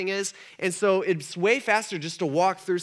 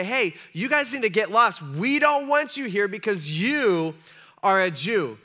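pitched up, emphatic telling-off; mock hostile rejection; 2 semitones higher, 4 dB louder than usual. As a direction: firmly order the outsiders away, lightly acted. Samaritans tell Jesus to leave.

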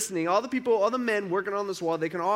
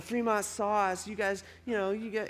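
mock taunt; 4 semitones higher, 4 dB quieter than usual. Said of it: "it's like".

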